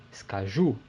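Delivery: skaju with the stress on the final "ju"; stress on last syllable. Shown as a demonstration. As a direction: land on the "ju" of skaju. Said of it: "é a última".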